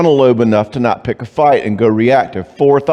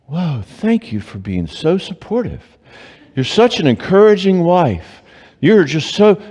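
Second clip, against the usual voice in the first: inner sarcasm; 6 semitones higher than usual. Retold or imitated. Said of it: "Inside, I'm starting to go".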